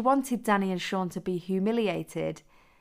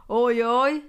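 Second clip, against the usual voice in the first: shouted; 5 semitones higher, 8 dB louder than usual. Acted. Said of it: "shouted one of the boys".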